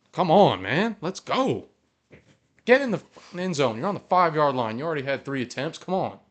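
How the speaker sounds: exasperated fan urging the team on; worked-up frustration. Real, not acted. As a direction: plead with the players, getting emotional. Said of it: "getting a little emotional now".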